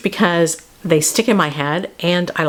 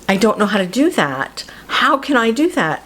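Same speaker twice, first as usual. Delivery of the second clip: Gretel pleading; 3 semitones higher than usual. Acted. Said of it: "What Gretel says is".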